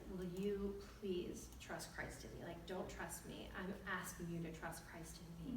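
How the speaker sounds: soft, slow, sincere pleading; retold earnest plea. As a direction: plead gently and without hurry. Husband pleads with his wife.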